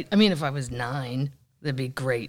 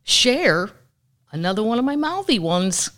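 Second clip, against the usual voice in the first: much higher, louder gushing; excited announcement; 9 semitones higher, 6 dB louder than usual. Real, not acted. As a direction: hype up your favorite star. Announcing favorite celebrity, a singer.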